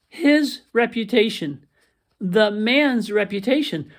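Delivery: slow, with weight on his and man's; stressing the possessives. Shown as a demonstration. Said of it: "we're talking about what?".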